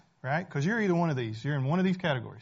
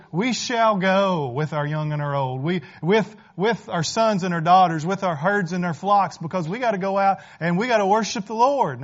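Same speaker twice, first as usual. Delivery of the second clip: bold Moses; 2 semitones higher, 7 dB louder than usual. Acted. Moses answers Pharaoh boldly.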